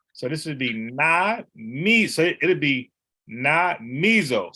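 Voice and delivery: slow na mizo, with mi leaned on and rising; slow syllable-by-syllable na mizo; stress on mi. Shown as a demonstration. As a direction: pull the word apart slowly, lean on mi. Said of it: "you gotta emphasize the E".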